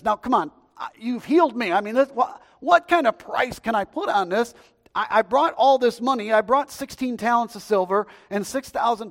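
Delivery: loud, high pleading with Elisha; acted grateful man, loudly insisting; insistent urging. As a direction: press the gift on him, loud and high. Acting out healed man pleading with Elisha.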